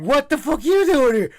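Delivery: loud, high-pitched mock indignation; hammed-up loud challenge; mock outburst. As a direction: burst out in playful outrage. Repeats mock outburst for laughs.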